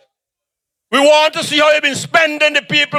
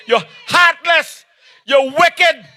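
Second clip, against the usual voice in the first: condemnation; 2 semitones higher, much slower than usual. Acted. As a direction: spit out each verdict. Rally, condemning opponent.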